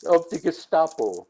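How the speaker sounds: lightly imitated German officer accent. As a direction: echo the title in a mock German accent. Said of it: "English in a German accent".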